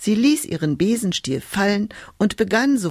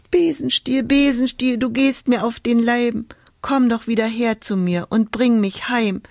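whimpering; 5 semitones higher than usual. Acted. Hulda begs her broomstick to come home, whimpering. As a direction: whimper the spell like a lost child. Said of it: "wimmerte Hulda".

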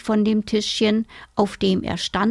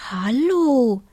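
put-on a slightly higher girl's greeting; lightly voiced girl; 4 semitones higher than usual. A narrator's reading. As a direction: greet like a young girl, pitched up a little. Girl greets the caged bird.

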